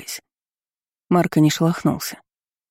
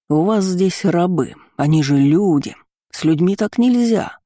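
mimics her in a higher, prim voice; mocking high-pitched parody; 3 semitones higher than usual. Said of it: "спародировал он высоким голосом". (передразнивает высоким голосом)

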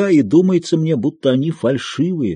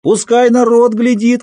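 much higher, slow, defiant scream; defiant shout; 11 semitones higher, 4 dB louder, slower than usual. A narrator's reading. Aksinya screaming so the crowd at the gate hears, slow and much higher. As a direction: let the whole street hear it. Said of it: "кричала Аксинья".

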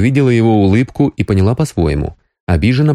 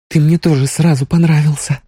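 ordinary delivery, nothing marked

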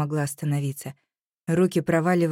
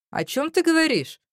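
bewildered; 11 semitones higher than usual. A narrator's reading. He is baffled by her accusation.

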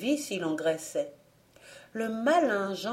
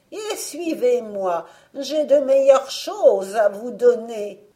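witch voice; 4 semitones higher, 8 dB louder than usual. Acted. The witch luring the children, false sweet witch voice. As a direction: coax them like a scheming old witch.

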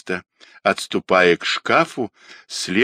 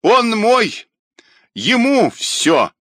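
very high, loud croaking cry; rusty croak; 13 semitones higher, 4 dB louder, slower than usual. A narrator's reading. Dying old woman claims Rodionov as hers, croaking rustily. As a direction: croak each word apart with a last fierce effort. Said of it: "ржавым голосом раздельно и внятно каркнула".

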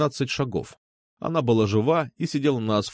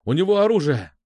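louder, higher shouted alarm; shouting warning; 6 semitones higher, 4 dB louder than usual. Acted. Hero warns the officers about the gun, shouting. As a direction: call out the gun to the squad. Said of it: "крикнул я".

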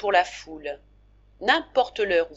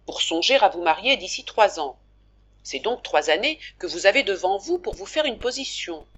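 lightly voiced Pierrotte, louder and hearty; hearty shopkeeper; 4 dB louder than usual. Pierrotte proposing a three-year plan to Daniel, hearty and a touch louder. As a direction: lay out the plan like a confident merchant.

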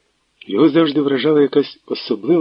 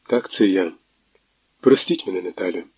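subdued, dimmed reply; dull voice; 3 semitones lower than usual. Acted. Tverdokhlib dully confirms on the phone to Natalia. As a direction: say it as if the light went out of him. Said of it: "тьмяним голосом підтвердив".

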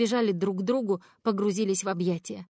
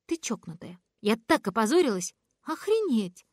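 exasperated scolding; 3 semitones higher than usual. Acted. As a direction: snap at her in embarrassment. Scolding after public embarrassment. (раздражённый упрёк, выше и громче)

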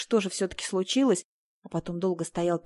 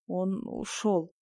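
very slow, softer, forced-out words; squeezed out; 5 dB quieter, much slower than usual. A narrator's reading. Asya forcing out that her husband left, slow and soft. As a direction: barely get the words out, holding back tears. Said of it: "выдавила из себя Ася".

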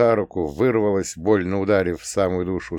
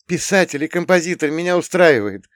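put-on high, loud plaintive girl's voice; whining girlfriend, higher and louder; plaintive whine; 9 semitones higher, 6 dB louder than usual. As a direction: drag it out, pleading. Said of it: "жалобно протянула она".

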